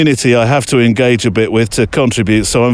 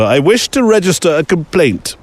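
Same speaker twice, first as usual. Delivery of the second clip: Monty Python complaint; 5 semitones higher than usual. Retold or imitated. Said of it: "cue the Monty Python dead parrot sketch".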